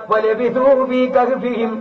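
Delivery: slow chanted Quranic verse; Quran recitation. Acted. Preacher cites the cave verse, chanted slowly. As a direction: draw the Arabic out like a reciter.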